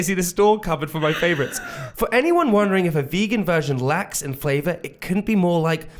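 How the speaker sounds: reading recipe text in a put-on American accent; shaky attempt at an American accent. Shown as a demonstration. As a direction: read it like an American. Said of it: "read this in my American accent".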